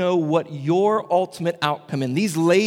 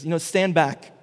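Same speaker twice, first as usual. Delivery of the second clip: haughty triumphant king; 3 semitones higher, 3 dB louder than usual. Retold or imitated. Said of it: "triumphant king who says".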